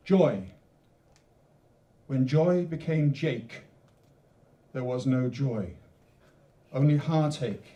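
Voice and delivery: slow, measured poem recital with long pauses; poem reading. Acted. Poet reading his poem to the audience, measured. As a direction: let each line land, then pause.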